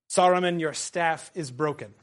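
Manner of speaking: a commanding read of the wizard's speech, building at the end; reading Gandalf aloud. Acted. Teacher reading Gandalf's speech to the class, commanding. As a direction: read it as a wizard rising in power.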